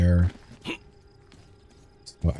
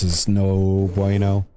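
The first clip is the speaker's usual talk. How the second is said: Tommy Wiseau voice; slower than usual. Shown as a demonstration. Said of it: "Why'd you say it like that".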